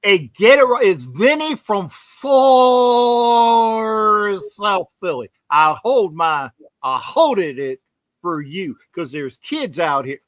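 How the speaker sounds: a light, hammed-up South Philly accent, tough guy from the neighborhood. Making his pick to the host in a mock South Philly accent. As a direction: play Vinny from far South Philly with a loose South Philly accent. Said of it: "What the fuck accent am I using?".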